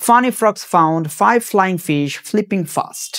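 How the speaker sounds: very slow, every f-sound drawn out, "Funny frogs found five flying fish flipping fast"; very slow tongue twister. Shown as a demonstration. Teacher slowly demonstrating the tongue twister, very slow. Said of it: "আবার দেখো".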